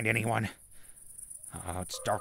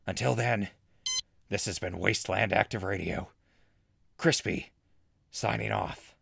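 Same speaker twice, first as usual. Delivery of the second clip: radio host sign-off. Acted.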